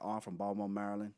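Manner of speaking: lightly imitated Baltimore accent. Retelling where he's from, Baltimore accent. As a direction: swallow the middle of "Baltimore", local style. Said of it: "Where you from?".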